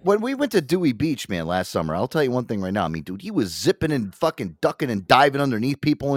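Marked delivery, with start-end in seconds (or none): none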